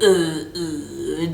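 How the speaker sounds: low, mock throwing-up noise; fake retching. Woman faking sickness for her man, mock retching. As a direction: put on a fake heave. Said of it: "act like I'm throwing up, like a fake".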